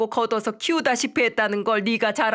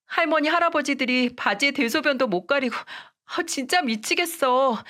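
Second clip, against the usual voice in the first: put-on higher, tearful-sounding young wife begging; a young wife pleading, voice pitched up; pleading daughter-in-law; 5 semitones higher than usual. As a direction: beg your mother-in-law not to force a divorce. Wife complains by phone.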